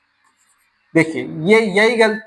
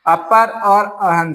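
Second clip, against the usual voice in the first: split slowly; slower than usual. Shown as a demonstration. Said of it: "ये शब्द बना है".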